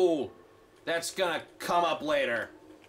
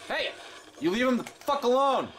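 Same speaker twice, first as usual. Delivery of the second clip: angry shout; 6 semitones higher than usual. Real, not acted. Player defending his little robot, angry shout. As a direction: bark it at the attacker.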